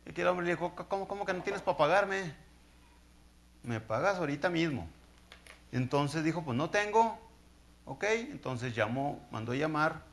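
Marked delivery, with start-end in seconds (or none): 0.7-4.9 indignant demand. Acted. Creditor refuses debtor's plea. 6.4-7.2 pleading debtor. Acted. Debtor pleads he cannot pay.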